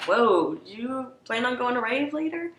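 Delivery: high mocking onlooker voice; judgy onlooker. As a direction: sneer like a shocked stranger. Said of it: "people aren't looking at you like".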